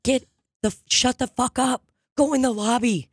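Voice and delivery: hammed-up scold of a texter; mock scolding. Comic retelling of scolding a friend voice texting at the show. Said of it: "I go".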